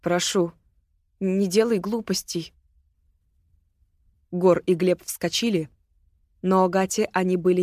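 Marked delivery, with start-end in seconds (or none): 0.0-2.5 calm soothing plea. Acted. Ирма calming armed Агата.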